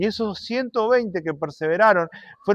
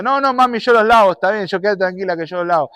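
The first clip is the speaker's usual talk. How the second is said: put-on boy giving in; 3 semitones higher than usual. Pedro cede asustado.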